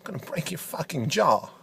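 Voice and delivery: a hint of Christopher Walken, choppy pauses; deadpan Walken-style commentator. Walken impression, menacing.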